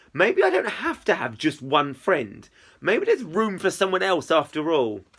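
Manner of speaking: clear, expressive audiobook reading; story narration. A narrator's reading. Narrator telling of a chat with Izzy, story narration. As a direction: read the story aloud with lively phrasing.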